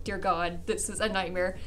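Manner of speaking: low, hushed aside of dread; retold quiet horror; muttered dread. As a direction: drop low and soft, as if to yourself. Muttered dread at seeing mom.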